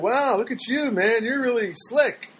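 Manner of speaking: fake-flatter him with a wink; lightly mocking compliment; sarcastic praise. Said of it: "I kinda said".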